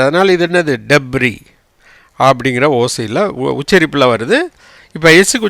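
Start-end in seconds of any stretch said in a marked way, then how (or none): 0.9-1.3 டெப்ரி with silent S, lower; correct pronunciation. Shown as a demonstration. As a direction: say டெப்ரி as "deb-ree". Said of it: "எஸ்ஸுக்கு உச்சரிப்பு கிடையாது".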